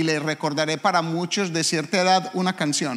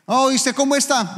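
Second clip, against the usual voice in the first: bright raised greeting pitch; high friendly greeting; 8 semitones higher than usual. Acted. A churchgoer greeting someone in the street, high and cheery. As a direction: greet a neighbour cheerfully, higher.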